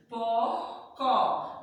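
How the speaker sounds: "Porcó" in two syllables, the R drawn out; drawn-out R sound. Shown as a demonstration. Teacher reads the word to pupils, drawn-out R in "Porcó". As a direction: stretch the R in "Porcó" before the last syllable. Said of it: "Sonzinho puxado".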